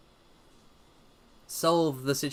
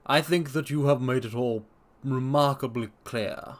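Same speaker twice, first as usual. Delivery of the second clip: doctor. Acted. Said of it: "said the doctor".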